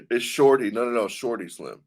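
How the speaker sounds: SHORTY with the R sounded; correcting the name. Shown as a demonstration. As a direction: correct them to "Shorty", with a clear OR. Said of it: "it says Shawty".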